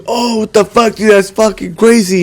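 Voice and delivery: high-pitched mock astonishment; retold amazement. Imitating the friend who saw it.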